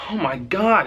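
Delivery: high-pitched swooping gasp of relief and shock; retold group shock. Passengers just after levelling out, retold high shock. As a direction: imitate shaken passengers exclaiming, pitched high. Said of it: "All of us are like".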